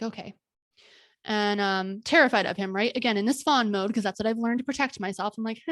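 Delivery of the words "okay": meek okay. Retold or imitated. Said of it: "I was like".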